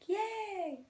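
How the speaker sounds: put-on very high, gleeful child's cheer; happy kid cheering. The Sun card's little kid cheers, very high and gleeful. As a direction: squeal it like a delighted little kid. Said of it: "He's like".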